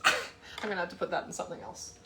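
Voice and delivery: talking with a mouthful; words around a big bite; mouth full. Real, not acted. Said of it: "with my mouth full".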